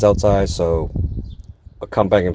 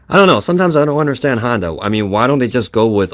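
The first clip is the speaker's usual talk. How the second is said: exasperated; 4 semitones higher, 4 dB louder, faster than usual. Real, not acted. Exasperated at the plastic clips.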